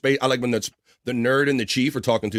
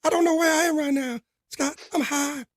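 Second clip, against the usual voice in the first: stoned goofball. Pretend. Acting out a stoned chatter.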